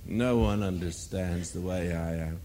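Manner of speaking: lightly voiced self-pitying moan; a hint of a complainer feeling hard done by; mock moaning. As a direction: whine it out half-mockingly, as the moaner. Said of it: "you just moan".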